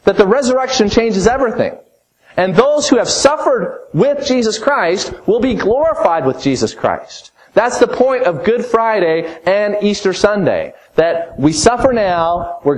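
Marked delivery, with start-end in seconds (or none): none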